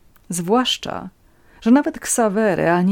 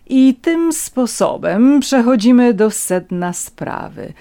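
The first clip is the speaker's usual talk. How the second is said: slow, raised, deliberate declaration; composed announcement; 7 semitones higher, 7 dB louder, slower than usual. A narrator's reading. Countess comes to the point, composed and deliberate. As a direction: announce it with controlled, emphatic poise. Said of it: "oznajmiła spokojnie Leszczyńska".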